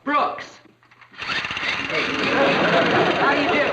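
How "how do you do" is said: robot voice. Acted. Astronaut boy greets visitor oddly.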